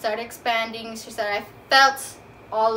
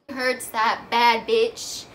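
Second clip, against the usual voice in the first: sassy retort; 4 dB louder, much slower than usual. Pretend. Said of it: "I didn't say bitch".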